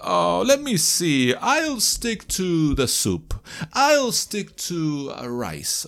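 slow, undecided customer ordering; a diner slowly making up their mind; hesitant diner. Pretend. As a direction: dither over the menu. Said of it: "Estás pidiéndolo ... indecisión".

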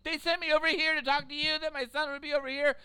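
high mock yell at the lady; half-hearted shouting impression; retold scream. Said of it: "she's screaming at this one lady".

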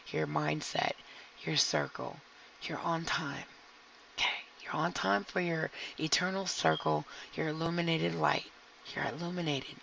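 soothing guided meditation voice; calm grounding exercise. Acted. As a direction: guide them gently through the grounding.

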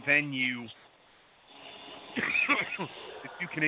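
coughing, choked on a drink; coughing up water. Real, not acted. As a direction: talk through a cough. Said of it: "went down the wrong pipe".

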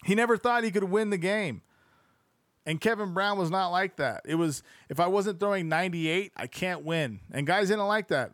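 animated reading aloud; lively sports-book narration. Acted. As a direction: read the book out with lifted energy.

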